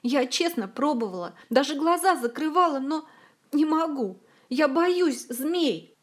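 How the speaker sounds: high, loud and frightened, slowing at the end; a scared girl begging for help; frightened plea. A narrator's reading. Zin begs Olga for help, frightened and high. Zin pleads, afraid of snakes.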